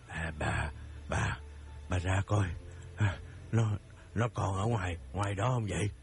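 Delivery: low, breathless frightened stammer; panting fear. Acted. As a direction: gasp it out to your wife. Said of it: "Ông thở hổn hển nói với vợ".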